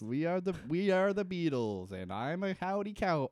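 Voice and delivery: lightly put-on Beatle accent from Liverpool; hesitant mock Liverpool accent; attempted Liverpool accent. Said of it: "I can't, I can't do an accent".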